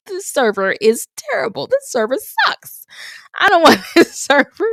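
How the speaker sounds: high, loud, laughing complaint about the server; imitating an angry customer, laughing through it; mock complaining customer. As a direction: ham up a fussy diner griping.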